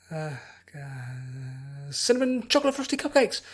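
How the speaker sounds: put-on a bubbly girl jolting awake shouting about cupcakes; Pinkie waking.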